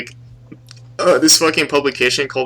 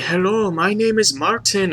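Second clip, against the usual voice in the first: high mock Asian accent; imitated Asian accent; 8 semitones higher, 3 dB quieter than usual. Asked to do the accent again, mock Asian accent. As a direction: redo the Asian accent, pitched up. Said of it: "Do the accent again?".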